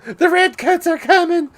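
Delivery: high, loud hammy pirate cry. Acted. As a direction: bellow it like a pirate. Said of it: "using that pirate voice".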